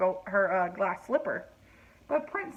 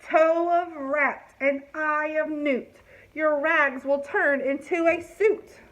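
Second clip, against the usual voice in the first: spell rhyme; 4 semitones higher, 4 dB louder, slower than usual. Acted. Fairy rhyming spell.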